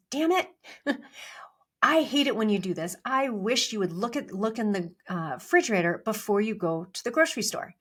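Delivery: retold mild exasperated complaint; annoyed husband. Husband complains to wife about the missing eggs, mock exasperated. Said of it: "a little bit perturbed".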